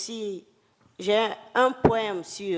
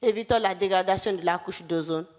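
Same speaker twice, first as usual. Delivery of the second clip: poem declamation. Acted. Poet declaiming a poem on environment and climate, solemn declamation. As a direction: declaim it in measured phrases with long pauses. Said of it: "si je peux le déclamer".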